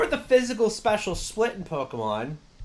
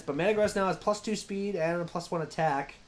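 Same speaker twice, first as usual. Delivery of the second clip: talking through a bite of cookie; words muffled by chewing a cookie; mouth full; 2 semitones higher than usual. Real, not acted. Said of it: "It sounds like you're muffled".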